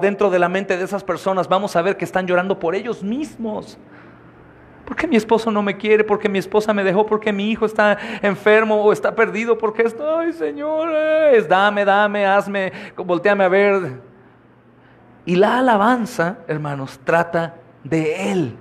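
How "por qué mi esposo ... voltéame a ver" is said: self-pitying plea. Retold or imitated. Self-pitying worshippers voiced.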